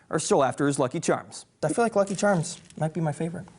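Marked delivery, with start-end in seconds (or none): 1.6-3.5 talking while chewing cereal; words around a mouthful, quick; mouth full. Real, not acted. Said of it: "not to talk with my mouth full".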